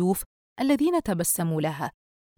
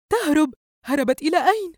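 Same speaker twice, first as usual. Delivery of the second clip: higher, louder disgruntled questioning; glowering; 9 semitones higher, 5 dB louder than usual. A narrator's reading. Mother demanding where the runaway went, glowering. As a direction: demand it with a scowl in the voice. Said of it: "الأم بتجهم".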